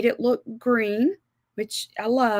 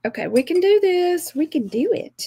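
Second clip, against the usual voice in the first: self pep talk; 8 semitones higher than usual. Real, not acted. Rallying herself against time pressure.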